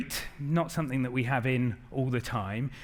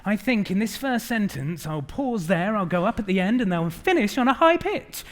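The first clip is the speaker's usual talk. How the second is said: mock sales thinking; 4 semitones higher than usual. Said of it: "walking into your next sales meeting thinking".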